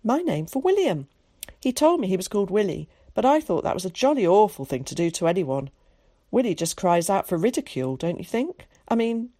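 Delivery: a hint of a chatty cultured boy. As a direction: chatter like a well-spoken schoolboy.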